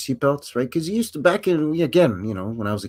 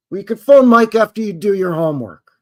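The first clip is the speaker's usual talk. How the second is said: stern parent; 6 semitones higher, 8 dB louder than usual. Acted. Parent refusing kid.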